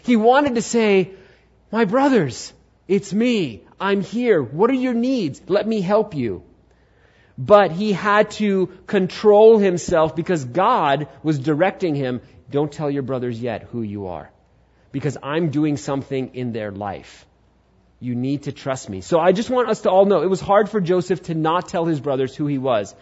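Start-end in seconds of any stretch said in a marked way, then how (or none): 1.7-6.4 higher-pitched, heartfelt appeal; acted eager reveal; eager reassurance. Voicing Joseph's longing to reveal himself. 12.5-19.0 lower, softer, steady voice; gently voiced command; calm divine instruction. Voicing God directing Joseph.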